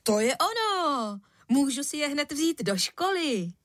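put-on boy exclaiming high with delight; excited cry. Boy thrilled by father's shoes, cries out to mum, excited. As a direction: burst out, thrilled with the new shoes. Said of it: "vykřikl".

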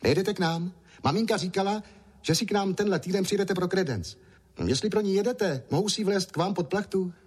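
put-on a small boy asking politely; little boy voice. A narrator's reading. Little boy Ondroušek speaks.

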